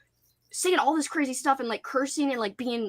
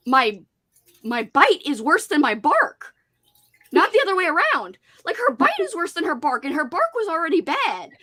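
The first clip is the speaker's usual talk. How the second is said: mock threatening woman. Retelling the angry lady's threat in line, mild mock menace. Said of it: "well, how did she say this?".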